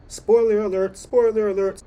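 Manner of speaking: high, loud sing-song warning; spoiler warning. Real, not acted. Vlogger warning viewers before the recap, sing-song call. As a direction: call out the alarm playfully. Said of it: "announcing spoilers to viewers".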